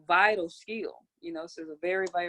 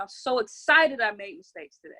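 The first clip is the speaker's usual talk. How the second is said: excited, louder; 7 dB louder than usual. Shown as a demonstration. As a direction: push it out loud and glad. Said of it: "God, I'm so happy and grateful".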